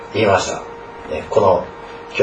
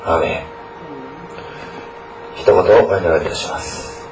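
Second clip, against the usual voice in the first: earnest prayer. Acted. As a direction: pray aloud for the students. Pastor leads an opening prayer. (牧師の真剣な祈り)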